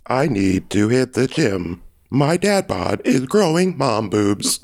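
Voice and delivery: slow robot words said on an inhale; robot voice while inhaling. Pretend. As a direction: breathe in while you say each word. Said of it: "say it while inhaling".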